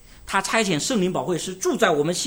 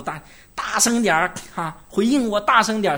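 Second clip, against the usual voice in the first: mock pushy preacher; 6 semitones higher, 4 dB louder than usual. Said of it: "有些人急了讲道的时候".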